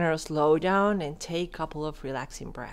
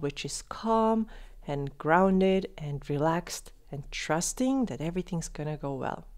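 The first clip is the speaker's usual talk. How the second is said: calm; 4 dB quieter than usual. Shown as a demonstration. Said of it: "my pace ... kinda slowed down".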